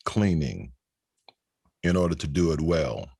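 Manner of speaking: measured spoken-word reading, phrase by phrase; poetry recital. Acted. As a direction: recite slowly, letting pauses hang between phrases. Recites second poem on stage.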